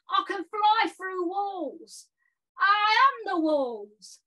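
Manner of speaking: hammed-up boastful gamer lad; silly clown. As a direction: bellow nonsense like a cocky clown. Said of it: "So I've done a poem".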